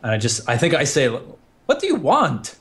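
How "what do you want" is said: slow, higher and fed up; drawn-out irritated what do you want; annoyed. Acted. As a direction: snap at him, exasperated. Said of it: "annoyed by this point".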